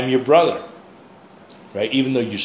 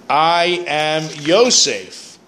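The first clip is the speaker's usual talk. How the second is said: drawn-out I am Yosef; slow Yosef; slow solemn quote; 4 semitones higher, much slower than usual. Shown as a demonstration. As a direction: say "I am Yosef" slowly, each word weighed. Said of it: "He mentions now in the second time around".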